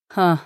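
a short scornful "ha"; short scornful huff. Acted. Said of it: "издал короткое восклицание".

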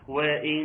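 وإن with the noon doubled and humming; idgham with ghunna. Shown as a demonstration. Teacher shows the merged nasal nun in وإن. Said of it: "وأنا أقرأها".

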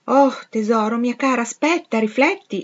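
anxious mother crying out; alarmed motherly exclamation. A narrator's reading. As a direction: beg your daughter to stop and think. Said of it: "esclamò la madre".

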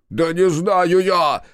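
high, loud, drawn-out shout; high-pitched, stretched outburst; hysterical yell. A narrator's reading. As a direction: yell it in helpless exasperation. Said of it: "заорал Макар".

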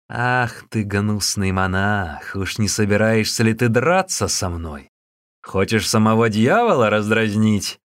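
big fellow taunting the monk; taunting challenge. Acted. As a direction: goad him into a fight.

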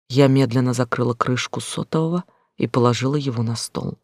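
plain reading voice

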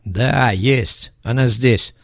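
lisping thug voice; hissing s sounds like sh; slushy sh for s. Acted. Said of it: "шепелявый голос". (шепелявый голос бандита)

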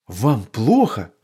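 a slow, mildly alarmed question; concerned, checking she is all right; worried. A narrator's reading. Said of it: "встревожился папа".

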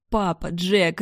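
calling out loud and high, panicked; desperate cry for help. A narrator's reading. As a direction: scream their names, begging for rescue. Victim screaming for help.

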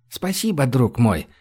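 usual speaking voice

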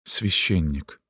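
soft, sinking, dismayed; fallen voice. A narrator's reading. Girl recognising the priest at her window, voice falling. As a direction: let the word drop in dread. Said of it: "сказала она упавшим голосом".

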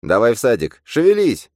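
high, loud, urgent order; high-pitched pushy command; commanding phantom. A narrator's reading. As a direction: bark the command, rising very high. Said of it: "скомандовал фантом".

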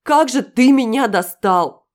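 громко и медленно, сорвавшись; выкрикни в отчаянии; крик. A narrator's reading. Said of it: "вскричала я". (сорвавшийся крик)

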